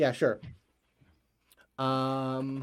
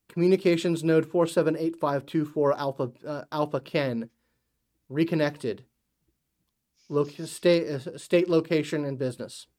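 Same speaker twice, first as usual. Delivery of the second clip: lightly voiced automated system; a hint of robotic operator reciting; even, lightly mechanical phone announcement. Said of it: "you hear a robotic sounding voice".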